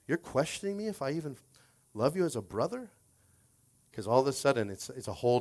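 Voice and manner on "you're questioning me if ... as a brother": hurt, incredulous question, pitched up; acted offended disbelief; upset Peter. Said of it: "And now Peter's upset".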